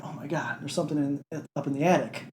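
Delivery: quiet, nervous whisper; hushed scared voice. Retold or imitated. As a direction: hush it like a scared soldier.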